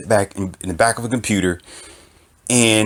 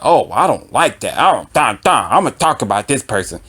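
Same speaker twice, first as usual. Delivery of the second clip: mocking commenter; 2 semitones higher than usual. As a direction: mimic a petty commenter picking him apart. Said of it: "somebody like".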